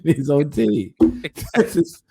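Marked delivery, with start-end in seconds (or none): 1.5-2.0 loud, high, drawn-out comic lament; mock dismay. Guest retelling his tea spill to a co-host, laughing mock dismay. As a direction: relive the embarrassment, slowing it right down with a laugh.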